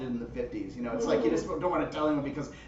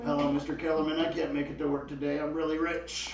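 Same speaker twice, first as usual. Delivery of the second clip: smug rich phone call. Retold or imitated. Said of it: "calling into work the next day rich".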